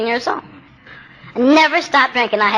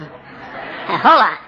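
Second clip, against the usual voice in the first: laughing emphasis; 3 semitones lower, much slower than usual. Real, not acted.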